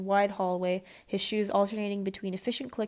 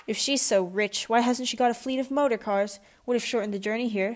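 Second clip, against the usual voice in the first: snorting; 2 semitones higher, 4 dB louder than usual. Acted. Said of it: "snorted Mister Crum".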